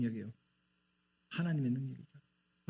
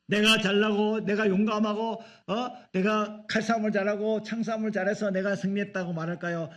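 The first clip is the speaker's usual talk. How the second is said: mock boasting; 5 semitones higher than usual. Soldiers bragging they won by their own skill, mocking boast. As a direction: puff up like a proud soldier.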